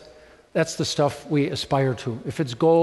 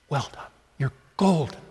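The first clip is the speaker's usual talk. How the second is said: soft, hushed reassurance; quiet, unhurried approval; tender praise; 2 semitones lower, 4 dB quieter than usual. Acted. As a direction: gently reassure a disbelieving listener. God's praise repeated to the stunned.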